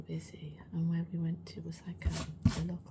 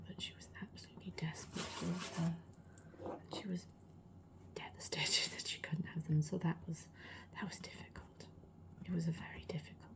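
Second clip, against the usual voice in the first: soft ASMR whisper; 4 dB quieter than usual. Real, not acted. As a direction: keep it a hushed whisper. Whispers throughout the vlog.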